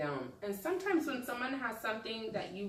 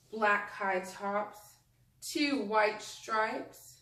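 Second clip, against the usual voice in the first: story reading; 3 dB louder, slower than usual. Acted. Teacher reading a picture book to her class, slow storytelling. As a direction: read it slowly to the children, savouring each phrase.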